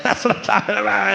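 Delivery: a hint of a thrilled little boy cheering; gleeful toddler.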